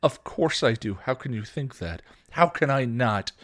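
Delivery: emphatic pained insistence; hurt protest. A narrator's reading. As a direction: protest it, wounded. Horrified sister protests the accusation.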